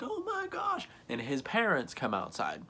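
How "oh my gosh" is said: hammed-up scream held back in volume; retold screaming. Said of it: "Starts screaming bloody murder".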